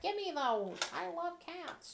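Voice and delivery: snatch them and swoon over the cats; greedy sister-in-law. Retold or imitated. Sister-in-law claiming the cat earrings, gushing. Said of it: "She'll be like".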